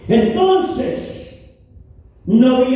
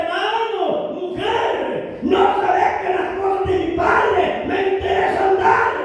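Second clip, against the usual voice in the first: voicing Jesus; 5 semitones higher than usual. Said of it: "Jesús le contesta".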